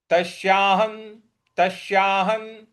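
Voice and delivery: तस्याहं closing on a clear n; anusvara as n. Shown as a demonstration. Teacher modelling तस्याहं, ending on न. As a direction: intone तस्याहं, final sound held as न. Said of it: "इसका उच्चारण भी न ही आएगा".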